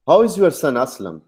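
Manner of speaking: "son असलम" run together as one name phrase; high "How", straight through to "असलम"; no pause before असलम. Shown as a demonstration. Teacher asks after the son, "son असलम" unbroken. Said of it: "अब ये rising tone है".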